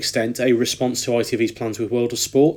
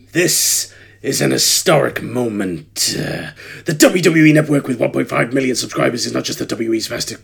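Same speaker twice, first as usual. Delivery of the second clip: slow, mock-serious wrestling boss read; a light put-on Triple H voice, taken slowly; Triple H impression. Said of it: "go back to my normal voice".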